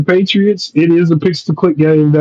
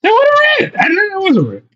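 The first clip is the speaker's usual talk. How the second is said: high squeaky admission; 14 semitones higher, faster than usual. Real, not acted. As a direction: pitch jumps way up, squeaky confession. Caught out, mock admission.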